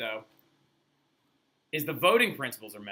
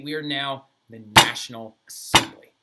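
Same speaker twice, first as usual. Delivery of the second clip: proud proclamation; 8 dB louder than usual. Retold or imitated. Proclamation of Assembly.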